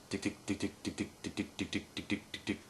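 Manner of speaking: quick voiceless tongue ticks; fast whispered ticks. Shown as a demonstration. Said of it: "So when you're going really fast".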